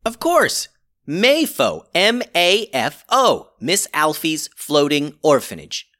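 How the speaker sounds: high, loud eureka moment; excited realization. Acted. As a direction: it suddenly clicks. Sudden realization of meaning.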